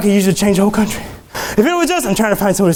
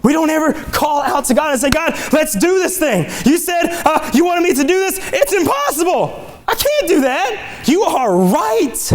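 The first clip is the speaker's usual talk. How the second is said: animated, high-pitched sermon delivery; lively preacher building to emphatic points; fervent preaching; 8 semitones higher than usual. Real, not acted. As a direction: preach it, acting out both sides. Preaches with acted dialogue.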